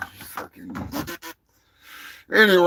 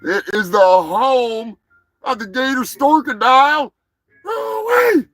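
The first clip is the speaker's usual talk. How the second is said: put-on Southern accent; 8 semitones higher, 5 dB louder than usual. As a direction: lay on a thick Southern accent. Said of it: "Put on my best Southern accent".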